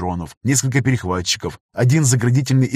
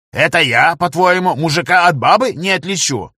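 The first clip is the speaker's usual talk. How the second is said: raised, louder indignant protest; 6 semitones higher, 4 dB louder than usual. A narrator's reading. Tech to gunner, offended by the joke, indignant. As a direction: bristle at the insult. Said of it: "возмутился Лёня".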